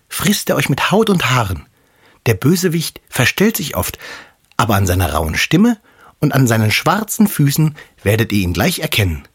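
a hint of a caring mother warning her kids; mother goat. Mother goat warns her seven kids before leaving, lightly voiced. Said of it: "und sprach".

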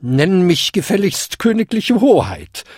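hohe, herrische alte Dame; zurechtweisend. A narrator's reading. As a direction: weise ihn hochmütig zurecht. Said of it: "verwies ihn die kleine alte Dame". (tadelnd und gebieterisch)

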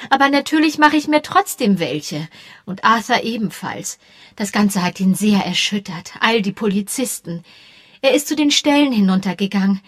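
lightly voiced fretful lady of the house; worried hostess. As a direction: talk herself out of worrying. Bantry worries aloud.

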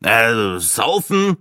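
uninterested question, lifted in pitch at the end; disinterested. A narrator's reading. Breitling guesses the missing rhyme, disinterested. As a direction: toss out the guess with little interest. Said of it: "fragte Breitling desinteressiert".

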